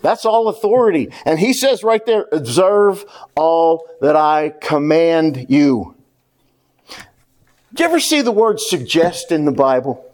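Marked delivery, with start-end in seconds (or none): 2.3-5.9 slow, lower, measured command. Retold or imitated. Jesus with all authority instructing followers, measured command. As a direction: set each word down as an order. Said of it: "He has the right to command".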